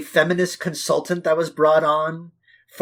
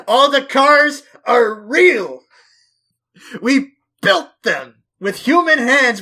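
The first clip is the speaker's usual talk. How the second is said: mock proud filmmaker boast; 4 semitones higher than usual. Mock filmmaker boasting about stunts.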